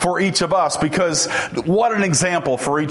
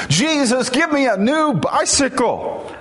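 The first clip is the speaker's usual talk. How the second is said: much higher-pitched boy's shouted plea, imitated; hammed-up yelled prayer, only slightly louder; louder mock yell; 10 semitones higher than usual. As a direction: pitch it way up like a kid hollering. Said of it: "followed up by even louder strains".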